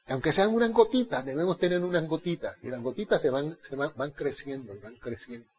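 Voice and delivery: sinks from soft to barely audible; preacher trailing off into a hush; fading to hush. Acted. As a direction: let the voice die away to almost nothing.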